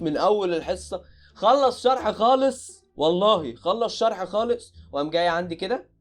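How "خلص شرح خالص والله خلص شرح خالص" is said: high, slow stretched out; slow emphatic insistence. Real, not acted. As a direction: drag out each word for emphasis. Stressing teacher finished lesson.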